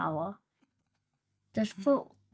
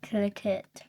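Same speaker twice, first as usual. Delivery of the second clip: whispering; 5 dB quieter than usual. Real, not acted. Urging partner to click.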